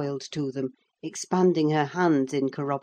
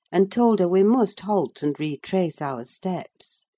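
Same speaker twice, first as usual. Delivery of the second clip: plain reading voice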